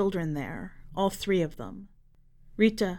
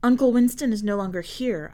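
said shortly; 3 semitones higher, 4 dB louder than usual. Acted. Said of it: "I say shortly".

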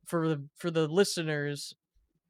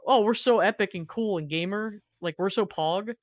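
put-on bratty kid voice; 4 semitones higher, 3 dB louder than usual. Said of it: "the boy was being like".

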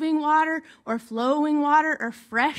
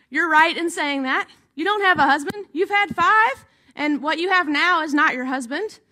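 amused Jesus; 3 semitones higher, 3 dB louder than usual. Retold or imitated. Jesus answers the woman about her husbands, lively and amused. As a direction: tease her gently with the truth.

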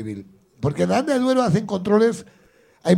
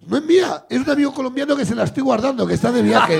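panicked excuse; 5 semitones higher, 3 dB louder than usual. Retold or imitated. Panicked excuse to police, retold.

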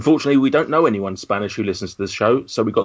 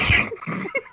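high, breathless wheezing laugh; dying with laughter, barely voiced; helpless laughter; 4 dB quieter than usual. Real, not acted. Co-host cracks up at the intro, dying with laughter. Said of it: "why you're dying with laughter".

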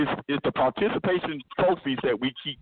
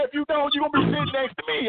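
coach threat; 9 semitones higher, faster than usual. Retold or imitated.

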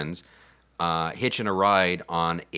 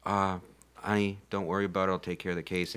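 reassuring nice guy; 7 dB quieter, faster than usual. Retold or imitated. Nice crewman calming the worried heroine, softly reassuring. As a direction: drop the volume and soothe, as the nice guy. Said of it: "he's, like, the nice guy".

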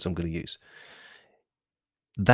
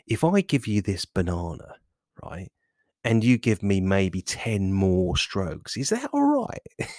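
bargaining friendly voice. Acted. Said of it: "this other voice that basically says".

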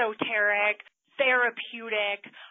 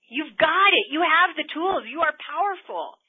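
loud, high coaching push; empowering; 7 semitones higher, 10 dB louder than usual. Real, not acted. Coach rallying her listeners, loud and high. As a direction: pump them up with belief. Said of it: "coach empowering listeners".

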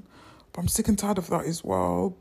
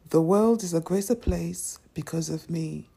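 affirmation call. Shown as a demonstration. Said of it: "Say it with me".

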